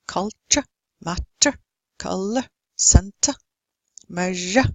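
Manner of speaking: "culture, matter, color, center, measure" with a light upbeat uh on the end; unstressed schwa ending. Shown as a demonstration. Teacher showing the almost inaudible schwa, "culture, matter, color, center, measure" with faint endings. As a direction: punch first syllables in "culture, matter, color, center, measure", barely voice the second. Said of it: "the second syllable is unstressed".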